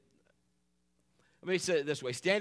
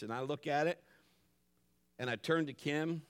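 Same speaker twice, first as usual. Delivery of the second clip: usual speaking voice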